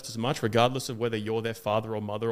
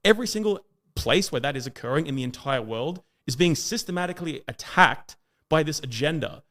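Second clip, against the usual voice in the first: ordinary delivery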